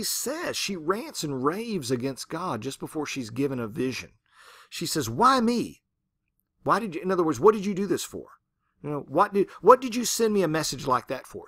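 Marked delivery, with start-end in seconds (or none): 5.1-11.4 shouted, higher, louder protest; angry yelling at God. Retold or imitated. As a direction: shake your fist at heaven and yell. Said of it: "shaking her fist at God and yelling at him".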